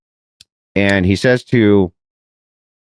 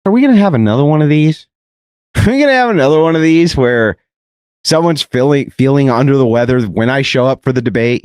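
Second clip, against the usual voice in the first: a bit higher and faster, mocking disbelief; sarcastic retort; 3 semitones higher than usual. Mocking the sick opponent before the debate, sarcastic. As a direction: needle him with a sarcastic question. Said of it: "And I'm like".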